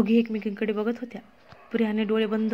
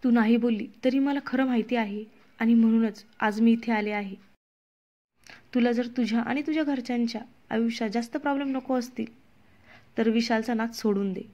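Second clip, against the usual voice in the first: threatening. Acted. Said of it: "जवळजवळ तिला धमकी देतच म्हणाली".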